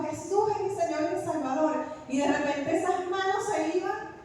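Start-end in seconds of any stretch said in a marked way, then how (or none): 0.0-1.8 higher-pitched, insistent declaration; retold shout, held back in volume; mild retold shout. Dreamer fighting off grasping hands, mildly shouting in retelling. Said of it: "yo lo gritaba más duro".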